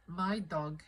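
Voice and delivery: imitating a Russian accent. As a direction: put on a light Russian accent. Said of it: "in a Russian accent".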